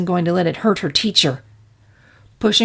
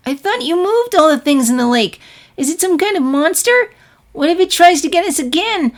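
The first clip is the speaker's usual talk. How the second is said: put-on high, worried child voice building to a cry; anxious young filly; 7 semitones higher, 5 dB louder than usual. Filly worries to her teacher about the monster, high anxious child voice. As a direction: fret in a small high voice, then yelp.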